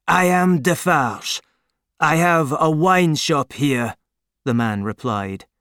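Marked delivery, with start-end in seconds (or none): 0.1-4.0 steady Defarge. A narrator's reading. Defarge voiced in story.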